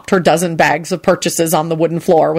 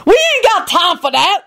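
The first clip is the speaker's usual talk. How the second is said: much higher, whispered, impatient cook; impatient Lucretia; 13 semitones higher than usual. A narrator's reading. Lucretia interrupting the couple, high and impatient. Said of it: "Lucretia broke in impatiently".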